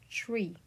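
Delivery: Tree with a bright ee sound. Shown as a demonstration. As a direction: stretch the ee in Tree. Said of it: "bright E sound like in tree".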